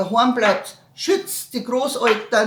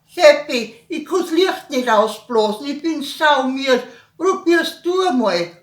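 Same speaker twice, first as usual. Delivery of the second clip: put-on whiny child; 5 semitones higher, 4 dB louder than usual. Child complains to brother.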